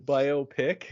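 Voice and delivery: incredulous echo. Real, not acted. Co-host learns of the pronunciation, incredulous. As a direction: repeat it back in disbelief.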